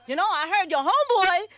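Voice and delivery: ordinary talk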